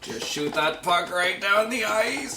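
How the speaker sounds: high, slow, laughing mock voice; high silly voice. Host joking about syrup, slow and high with laughter. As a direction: stretch it out high as a joke.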